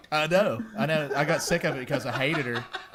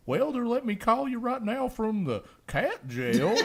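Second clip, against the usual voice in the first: very high, slow, louder talking-cat voice; voicing the cat Brutus; 11 semitones higher, 5 dB louder than usual. Brother pretending to be the cat calling his sister, high and slow. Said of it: "I was like".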